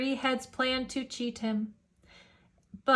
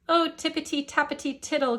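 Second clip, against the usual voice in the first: cried; 4 semitones higher, faster than usual. Acted. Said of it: "cried Jane".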